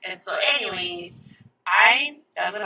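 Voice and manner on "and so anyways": usual speaking voice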